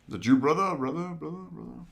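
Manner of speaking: lightly voiced brute asking for his brother; a hint of a gruff villain calling out; Savage Opress voice. Podcast host quoting Savage Opress, lightly voiced villain. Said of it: "very cool".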